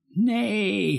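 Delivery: high, sharp cry of dismay; mild yell. A narrator's reading. Father at the window yells seeing the dug-up garden. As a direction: yelp it out, startled. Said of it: "gilt hij".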